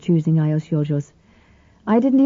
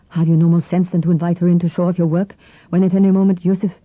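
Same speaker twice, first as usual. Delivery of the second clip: explosive; faster than usual. Acted. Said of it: "The swiftly spoken Greek was almost explosive".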